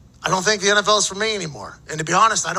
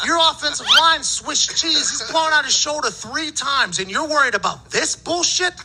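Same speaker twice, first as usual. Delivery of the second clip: unload on him, voice raised; retold angry rant; 6 semitones higher than usual. Retold blowup at the GM.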